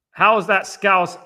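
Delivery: slow, high and loud; drawn-out call. Real, not acted. Streamer reading a viewer's question, drawn out and loud. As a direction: stretch the opening words out.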